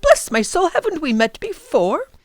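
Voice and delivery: put-on a delighted old professor greeting; mild surprised old man; kindly old professor.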